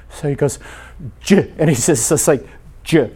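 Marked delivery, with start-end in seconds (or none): 1.2-1.5 imitated attempt at a name, choked short; choked-off prayer. Tearful pastor trying to say Jesus, imitated choking up. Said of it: "Sometimes you never get past". 2.8-3.1 choked-off prayer. Retold or imitated. Tearful pastor trying to say Jesus, imitated choking up. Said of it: "Sometimes you never get past".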